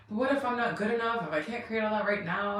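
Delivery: a lightly voiced husband, worried and pleading; husband's worry. Retelling her husband's anxious doubt, lightly voiced husband. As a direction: voice the husband's fear of not being good enough.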